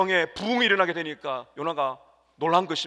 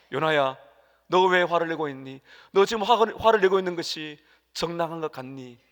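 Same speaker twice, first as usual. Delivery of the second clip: God asking Jonah; 4 dB louder than usual. Acted. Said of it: "이렇게 말씀을 하십니다".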